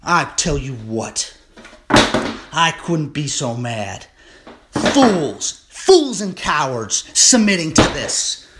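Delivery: building from firm to a loud, high furious rant; real outrage, shouting it at the cowards. Real, not acted. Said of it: "this is where I get furious".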